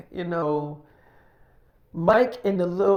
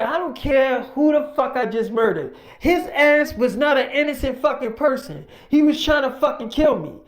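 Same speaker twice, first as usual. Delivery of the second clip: heated, raised defiance; angry retort; 4 semitones higher than usual. Retold or imitated. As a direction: snap back without remorse. Mike defending the shooting.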